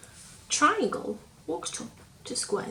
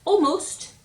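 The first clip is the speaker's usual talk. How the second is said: suspenseful; 9 semitones higher, 8 dB louder than usual. A narrator's reading. Suspense in the story.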